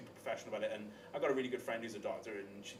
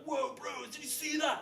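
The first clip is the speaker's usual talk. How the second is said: high, slow, dazed voice; dazed bro; 5 dB louder than usual. Retold or imitated. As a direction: drawl it, stunned and oblivious. Surfacing after huge back flop.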